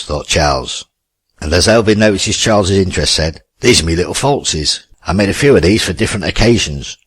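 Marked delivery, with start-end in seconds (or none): 3.6-7.0 a light, cheery Cockney twang; lightly voiced cheerful Cockney, proud of his falsies. Elvin showing Charles his homemade falsies, light cheery Cockney. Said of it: "said Elvin in his cheery Cockney twang".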